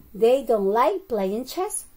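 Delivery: slow, measured example sentence; slow model sentence. Shown as a demonstration. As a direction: model it slowly for a language class.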